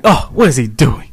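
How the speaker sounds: mock theatrical fuss. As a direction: imitate her making a big drama of it. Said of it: "like, so theatrical".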